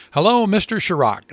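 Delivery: hint of an Irish pub caller's accent; Irish publican ringing the French president, mild Irish brogue; heavy Irish accent. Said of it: "a heavily accented voice said".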